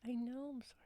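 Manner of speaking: whispered, sheepish sorry; hushed retold apology. Host retelling her apology to Bubsy, whispered. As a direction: whisper the apology under your breath.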